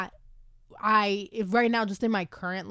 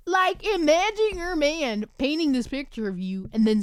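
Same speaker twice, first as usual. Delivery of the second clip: gushing excitement; 6 semitones higher, 3 dB louder than usual. Real, not acted. Gushing about romantic book scene.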